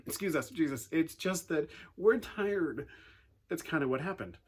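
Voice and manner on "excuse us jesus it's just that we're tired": polite but whiny, drawn out at the end; mock whiny disciples. A preacher voicing tired disciples, mock whiny. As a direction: play it as tired disciples hinting they want to stop. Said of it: "they're like".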